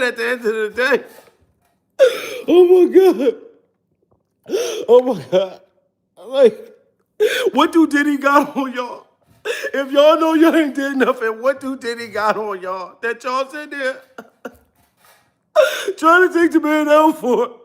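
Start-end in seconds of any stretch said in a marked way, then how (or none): 2.5-5.6 loud, high hammed-up cry; mock wail. Crying to his live chat about a rapper, a loud high mock wail. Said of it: "I've been down here crying". 6.3-17.6 high, hammed-up sobbing laugh-cry; mock crying. Pleading with the guards through hammed-up tears, higher. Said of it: "I've been down here crying".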